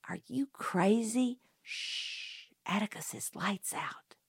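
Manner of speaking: urgent, breathy hush dropping to a whisper. A narrator's reading. Girl hushing her brother in the dark, urgent whisper. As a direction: hiss it so Atticus won't wake.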